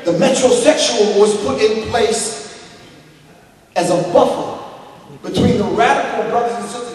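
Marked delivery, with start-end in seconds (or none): 0.0-1.2 slow, deliberate repeat of "metrosexual"; said slowly. Shown as a demonstration. Speaker repeats a key term for his audience, slowly. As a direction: spell out "metrosexual" slowly for the crowd. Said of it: "I'm gonna say that again slow".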